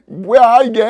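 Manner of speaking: indignant but amused; mock annoyed outburst. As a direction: act out an angry reaction, half laughing. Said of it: "막 화를 내는 거야".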